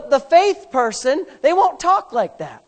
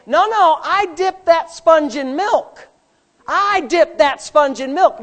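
raised, louder mock protest; stubborn insisting; 4 semitones higher, 4 dB louder than usual. Someone denying what came out of the sponge, insistent. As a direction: insist on it in a higher voice.

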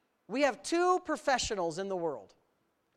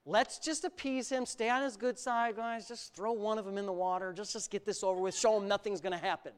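skeptical Peter; 3 semitones lower, 4 dB quieter than usual. Retold or imitated. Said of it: "you know what Peter thought".

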